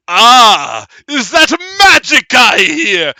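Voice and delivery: exclaim, delighted to find prey; hammed-up monster delight; hungry creepy exclamation. Monster hears player's voice.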